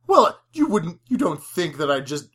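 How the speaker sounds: uppity flirt pretending to be insulted; mock indignant. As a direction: play her huffy and affronted. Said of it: "when she's like".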